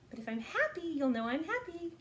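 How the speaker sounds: put-on teacher demonstrating a happy voice to kids; sounding happy. Shown as a demonstration. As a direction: lift the voice to show happy. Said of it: "I'll sound happy".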